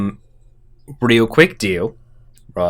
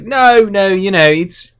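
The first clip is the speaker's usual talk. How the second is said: higher-pitched, placating denial; smooth it over, voice lifted; 7 semitones higher, 3 dB louder than usual. Acted. Jimmy James going along with the wrong name, placating.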